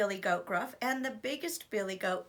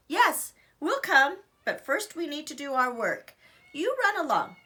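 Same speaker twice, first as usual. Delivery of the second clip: brother goat voice; 5 semitones higher, 5 dB louder than usual. Acted.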